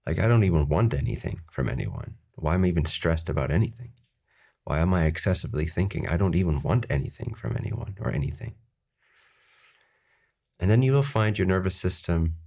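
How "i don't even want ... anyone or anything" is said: brisk, offhand mock disbelief; lightly joking self-talk, quickening along the way; facetious. Shown as a demonstration. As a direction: rattle it off facetiously, as if it's no matter. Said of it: "say it facetiously like this".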